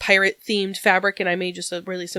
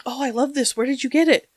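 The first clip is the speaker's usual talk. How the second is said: mildly excited, higher quote; retold excitement; 5 semitones higher than usual. Friend thanking her for the bag, mildly excited. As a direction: voice a delighted gift receiver, lightly. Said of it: "he was very excited".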